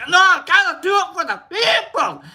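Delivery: high, insistent mock protest; mock arguing. Streamer arguing with friends, mock indignant protest. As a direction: argue it back with hammed-up indignation. Acted argument with the others.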